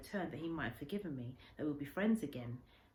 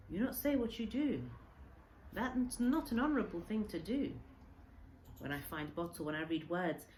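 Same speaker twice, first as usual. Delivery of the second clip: put-on old man's gentle reproach; 4 semitones higher than usual. Old man reproaches the boy about the bottle message, hurt. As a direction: reproach a friend who hid the truth.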